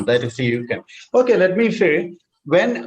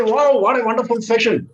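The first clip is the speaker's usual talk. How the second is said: high-pitched wowed praise; gushing feedback; 6 semitones higher than usual. Shown as a demonstration. Participant giving feedback, gushing and high. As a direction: act out effusive, automatic praise. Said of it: "when you ask for the feedback in a session like this".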